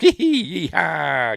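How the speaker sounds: loud, high, drawn-out mock cowboy yell; excited whoop. Imitating the driver who got past the truck, excited whoop. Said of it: "it's all excited, look".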